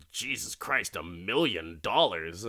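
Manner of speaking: incredulous, voice swooping down on the price; shocked disbelief. Retold or imitated. Carlton hears the doctor's price, incredulous. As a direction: balk at the cost, mildly acted.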